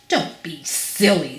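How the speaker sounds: mildly scornful snort of a line. Acted. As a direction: dismiss it with a light snort. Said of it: "snorted Mister Uppity".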